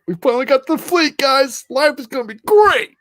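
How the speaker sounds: high, eager newbie voice; naive recruit voice. Retold or imitated. Mimicking new recruits arriving at the fleet, high and eager. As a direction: play the starry-eyed rookie straight off the bus.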